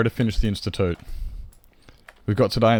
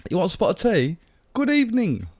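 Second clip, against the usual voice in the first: very high mock posh British greeting; a hammed-up English butler; 8 semitones higher than usual. Greeting Troge in a mock posh British voice.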